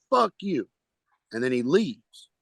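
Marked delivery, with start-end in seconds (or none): 0.1-0.7 high, mild mock yell; retold yelling. Heckler turns on his partner before leaving, mild retold yelling. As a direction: imitate a heckler's parting yell. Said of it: "he started yelling".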